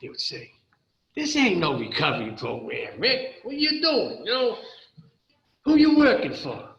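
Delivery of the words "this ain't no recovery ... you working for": imitating an angry guard, higher and louder at the end; guards getting mad. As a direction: challenge him like a suspicious guard. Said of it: "the guards would get mad".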